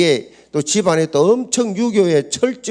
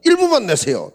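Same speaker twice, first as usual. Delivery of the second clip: eager retold plea; 8 semitones higher than usual.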